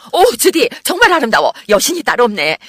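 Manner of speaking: very high, loud gasp of wonder; cry of admiration. A narrator's reading. Friend seeing Judy in the white dress, exclaiming in admiration. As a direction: exclaim in awed delight, easing a little at the end. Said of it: "나는 탄성을 질렀다".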